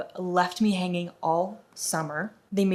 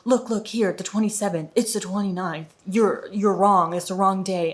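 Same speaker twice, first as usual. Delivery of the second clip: condescending; 4 dB louder than usual. Retold or imitated. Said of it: "He says".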